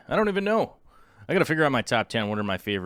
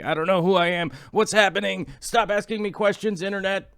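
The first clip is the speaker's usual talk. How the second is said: mock exasperation; 5 semitones higher than usual. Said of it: "And I'm like".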